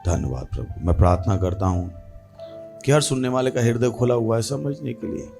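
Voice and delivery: low, measured prayer voice; opening prayer. Real, not acted. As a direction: pray steadily, pitched under normal talk.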